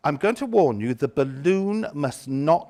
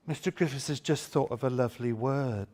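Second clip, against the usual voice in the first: 1 gasped excitement; 2 semitones lower, 5 dB quieter than usual. Shown as a demonstration. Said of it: "say words with passion".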